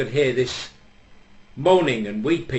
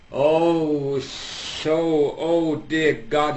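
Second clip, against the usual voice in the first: hammed-up wailing "oh dear God", slower and higher; mock sobbing; 5 semitones higher, 3 dB louder, much slower than usual. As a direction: play the weeping husband, overdone. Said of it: "sobbing and weeping".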